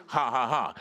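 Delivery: deliberate spoken-out laugh; forced, even ha-ha-ha; defiant faith laugh. Retold or imitated. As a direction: laugh mockingly in someone's face. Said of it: "he laughed right in the devil's face".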